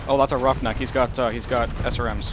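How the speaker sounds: alarmed. Real, not acted. Sudden enemy mech appears.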